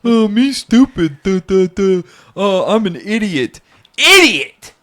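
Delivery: very high, loud mock-idiot demon voice; goofy demon impression. Podcaster showing off his demon impression, high idiotic squawk. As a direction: squawk it out like a dim-witted cartoon demon. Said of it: "Here's my impression of being a wily, sly, and cunning demon".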